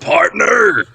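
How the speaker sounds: high, hammed-up Southern drawl; mock Southern. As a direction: throw out a big Southern cowboy word. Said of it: "it just switches to Southern".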